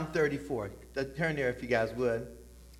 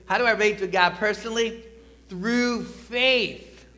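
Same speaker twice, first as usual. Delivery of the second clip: louder, higher call to the congregation; congregation call-and-response; 6 semitones higher, 6 dB louder than usual. Shown as a demonstration. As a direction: lead the room in saying it together. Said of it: "everybody say this with me".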